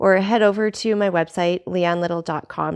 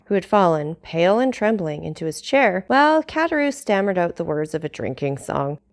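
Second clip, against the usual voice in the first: measured storytelling read with character voices; audiobook narration. A narrator's reading. Vlogger reading Dumas chapter to her audience, steady narration. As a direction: read the classic chapter aloud to listeners. Reads novel aloud.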